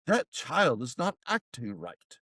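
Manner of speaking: slow, measured imitation of snooty neighbours; mock disapproval. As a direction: pass judgement slowly like a prim neighbour. Disapproving posh neighbours voiced.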